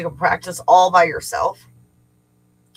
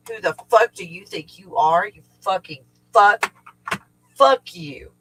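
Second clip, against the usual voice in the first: retold telling-off, building louder; angry talking-to; 4 dB louder than usual. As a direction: lay into it, re-enacting the rant. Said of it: "gave it a fucking talking to".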